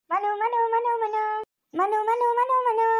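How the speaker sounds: high, sing-song calls of the name; gleeful calling. Acted. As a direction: call his name over and over in delight. Gleeful woman calling Manu. (ಖುಷಿಯಿಂದ ಮನುವನ್ನು ಕೂಗಿ ಕರೆಯುವುದು)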